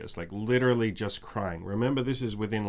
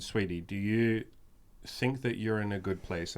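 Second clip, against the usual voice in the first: very gentle; 3 dB quieter than usual. Retold or imitated. Gently asking the upset girl if she is in a good place. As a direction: ease the question out softly to calm her. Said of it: "I very gently said".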